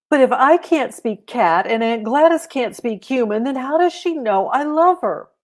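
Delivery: put-on puzzled little girl. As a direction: ask it like a confused kid pleading. Holly puzzled, pleading.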